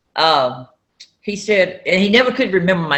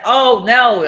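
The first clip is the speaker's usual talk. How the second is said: hysterical; 4 semitones higher, 5 dB louder than usual. Retold or imitated. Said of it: "I'm jumping and hysterical".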